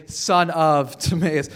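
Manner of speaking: drawn out slowly, leaning on "son"; slow it down so "son of Timaeus" sinks in; slow emphatic repeat. Shown as a demonstration.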